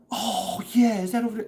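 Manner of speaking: high mock New York girl, curious; put-on New York accent asking along. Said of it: "mimicked her accent".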